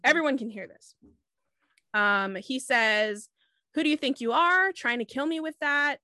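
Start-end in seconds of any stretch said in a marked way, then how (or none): 3.7-6.0 higher, louder mock indignation; imitating an incensed accuser; retold outrage. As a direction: quote his angry challenge. Retelling his outrage at being attacked.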